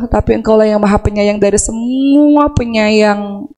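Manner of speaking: slow, pleading confession to God; slow tender plea. Shown as a demonstration. Preacher models a tender, slow plea to God. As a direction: say it slowly, as a heartfelt plea. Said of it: "Ngadu aja sama Allah".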